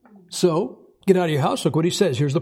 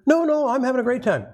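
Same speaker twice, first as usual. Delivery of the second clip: overstaying guest; 7 semitones higher than usual. Pretend. Guest replying, laughing.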